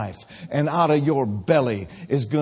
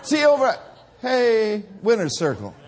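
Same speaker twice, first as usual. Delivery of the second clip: high shouted call; excited shout; 7 semitones higher, 3 dB louder than usual. Acted. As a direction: shout it out to the crowd.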